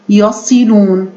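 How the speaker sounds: يصلون slowly, short "si" and long "loon"; ya-si-loon, measured, for يصلون; careful slow teaching take of يصلون; model pronunciation. Shown as a demonstration. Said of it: "حركتها الكسرة".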